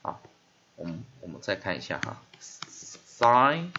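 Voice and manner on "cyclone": "cyclone" split in two, first syllable loud and stretched; long-vowel demo. Shown as a demonstration. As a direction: draw out the Y in "cyclone" as a long eye sound. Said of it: "把这个Y拉成长母音".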